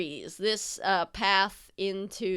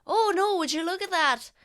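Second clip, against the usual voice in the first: much higher, louder theatrical gasp of surprise; mock surprise; 11 semitones higher, 4 dB louder than usual. Husband spots felled trees on the road, much higher mock surprise. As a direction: act startled at the fallen trees. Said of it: "stopped his whatever to be like".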